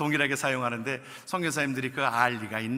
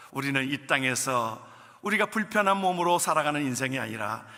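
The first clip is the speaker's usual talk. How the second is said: ordinary talk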